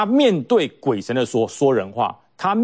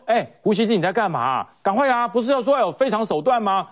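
mocking little pink; 5 semitones higher than usual. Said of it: "所以这小粉红骂翻了".

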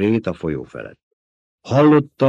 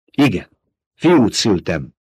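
flaring up; 5 dB louder, slower than usual. Acted. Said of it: "fortyant fel Jessica".

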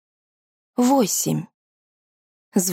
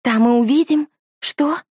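incredulous; 7 semitones higher than usual. A narrator's reading. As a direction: echo it back in disbelief. Incredulous echo.

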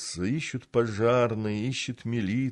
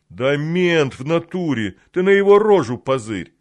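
excited thug shout; 7 semitones higher, 9 dB louder than usual. Acted. Thug insists loudly to others.

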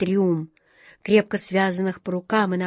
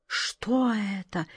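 soft, very slow question; barely audible; 6 dB quieter, much slower than usual. A narrator's reading. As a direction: let it out slowly, barely voiced. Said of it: "еле слышно проговорила она".

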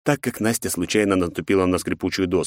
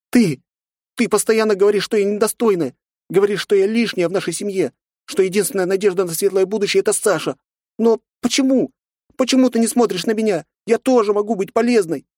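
put-on high, loud hurt girl crying out; a young girl finally bursting out; girl's outburst; 14 semitones higher, 4 dB louder than usual. A narrator's reading. Nastya cries out at her father, hurt and pleading. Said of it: "воскликнула Настя".

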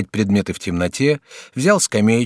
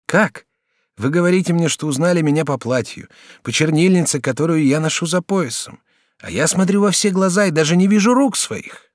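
higher, brighter-pitched polite youth; lightly raised student voice; young student Jacques; 7 semitones higher than usual. Acted. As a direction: play the courteous young student. Student astonished.

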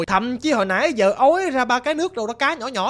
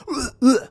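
short, raised "ưa, ưa" noise; imitated corpse gurgle; 4 semitones higher, much faster than usual. Storyteller mimicking a sound from the drowned woman's mouth, imitated gurgle. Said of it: "bả phát ra cái tiếng là".

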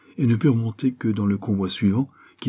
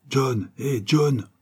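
higher-pitched call to someone nearby; appel; 6 semitones higher, much slower than usual. Acted. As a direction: hail a man by name, pitched up. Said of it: "L'indigène l'appela". (héler quelqu'un d'une voix plus aiguë)

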